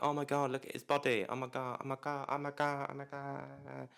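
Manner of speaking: high, gushing squeals that fade to a breathless hush; swooning fangirls. Retold or imitated. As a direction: gush over him like a smitten fan. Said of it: "they're like".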